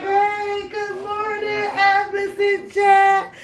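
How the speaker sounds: high, slow sing-song hello; mock cheery greeting. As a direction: chirp it like a clueless newcomer. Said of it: "She was like".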